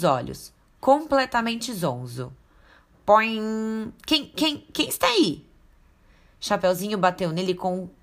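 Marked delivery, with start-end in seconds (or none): 3.0-5.5 much higher, woozy, confused wolf; dazed wolf. Acted. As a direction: come to, groggy and lost.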